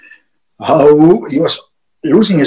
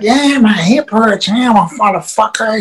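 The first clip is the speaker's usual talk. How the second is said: imitated pained complaint; 3 semitones higher than usual. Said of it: "he was showing it".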